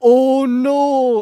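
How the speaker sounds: very high, very loud, drawn-out, exaggerated Japanese English accent. Retelling a scene where the grandpa character cries out: over-exaggerated Japanese English accent. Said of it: "in the most over-exaggerated Japanese English in the world".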